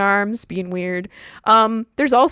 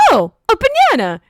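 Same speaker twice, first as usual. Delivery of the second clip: higher, louder strange voice from inside her; a hidden voice inside the girl spots a banana, higher and odd; mystery inner voice; 9 semitones higher, 5 dB louder than usual. Retold or imitated. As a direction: pop out an odd little voice from within. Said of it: "you hear a voice from within her go".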